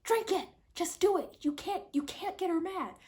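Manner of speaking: begging the friend to drink before the mother snaps; urgent pleading Tess. Retold or imitated. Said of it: "you can hear Tess saying".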